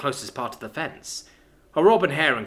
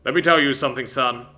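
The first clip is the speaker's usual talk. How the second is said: father voice; 5 dB louder than usual. Acted. Father threatens.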